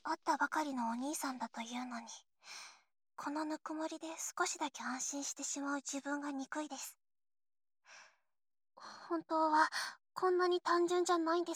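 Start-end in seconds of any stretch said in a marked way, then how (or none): 1.2-7.0 whispering. Acted. Whispered confession lying in bed.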